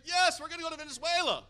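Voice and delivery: high, loud eager group yell; crowd shout. Retold or imitated. Leaders answering the preacher, loud eager shout. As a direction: shout back with fired-up agreement. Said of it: "Everybody starts raising it".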